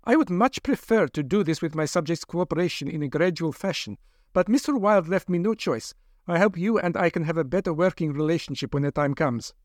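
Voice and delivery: hint of a persuasive lab doctor. Doctor explains after subduing captive.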